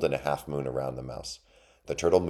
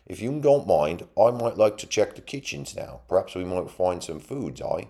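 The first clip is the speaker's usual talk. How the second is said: higher-pitched rustic mole voice; mole character; 5 semitones higher, 3 dB louder than usual. A narrator's reading. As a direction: wheedle a little as a country mole. Mole asks about kitchens.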